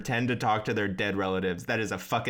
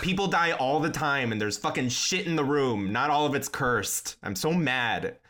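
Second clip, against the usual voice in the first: shouting; 4 semitones higher than usual. Real, not acted. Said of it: "I'm sorry I'm yelling at everyone today".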